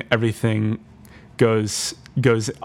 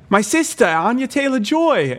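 insistent claim; 14 semitones higher than usual. Retold or imitated. Accused girl insisting to the town, high and pleading. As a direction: plead desperately, sure she's right. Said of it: "she's like".

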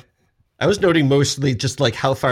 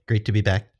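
ordinary talk, nothing marked

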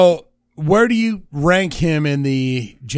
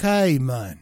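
mock Australian accent; 2 semitones higher than usual. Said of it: "Australia's like".

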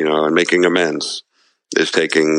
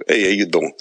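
lightly imitated Jersey tough-guy accent; a touch of Jersey mobster in a greeting; De Niro. Shown as a demonstration. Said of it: "I do a good De Niro".

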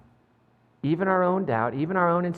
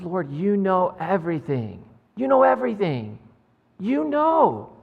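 pained plea to hush. Acted. Peter answers, hurt, third time.

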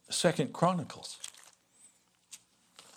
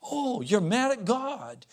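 incredulous pastor; 9 semitones higher, 3 dB louder, slower than usual. Retold or imitated. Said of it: "I said".

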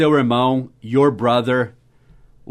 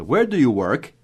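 "Where" pitched up, dipping through to "work"; correct English question intonation. Shown as a demonstration. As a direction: teach the tune with "Where" on top. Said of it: "Essa entonação correta".

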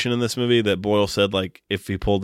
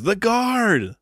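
put-on a failed stab at an Irish accent, pitched much higher; Irish accent attempt; 13 semitones higher than usual. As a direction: shout the title in a wobbly Irish accent. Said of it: "But with an Irish accent".

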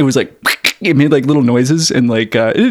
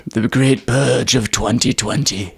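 slow, drawn-out grand pronouncement; mock-epic naming, stretched out; mock-solemn title; 4 dB quieter, slower than usual. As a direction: intone it slowly like a historic event.

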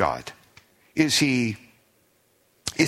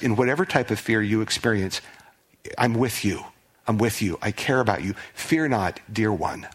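tender comfort; 3 semitones lower than usual. Pretend. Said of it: "but God saying to us".

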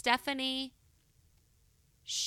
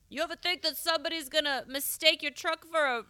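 put-on higher-pitched muddled Bigfoot accent; weird muddled accent; 7 semitones higher than usual. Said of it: "he has a weird muddled accent".

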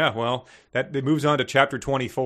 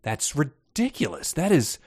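mock outrage; slower than usual. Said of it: "You wouldn't be like".

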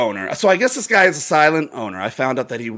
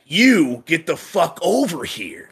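mock yell, pitched up and drawn out; imitated yelling; 5 semitones higher, slower than usual. Bartender retelling a drunk owner's order, mock yell. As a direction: imitate a man ordering staff over. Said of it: "he's starting to yell".

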